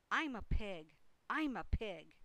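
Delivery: loud show-off shouting; Avery's yell. A narrator's reading. Boy crawling into the crate playing pig, loud yell. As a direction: call it out proudly, loudly. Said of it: "yelled Avery".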